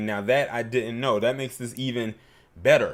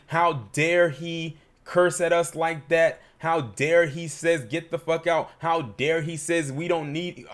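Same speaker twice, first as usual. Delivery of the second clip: mocking outrage. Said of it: "They took the social media saying".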